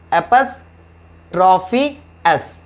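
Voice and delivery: एपॉस्ट्रॉफी drawn out very slowly; slow drill word. Shown as a demonstration. Teacher to class, stretching एपॉस्ट्रॉफी very slowly. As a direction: stretch एपॉस्ट्रॉफी long and even. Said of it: "teacher spells out the plural marker".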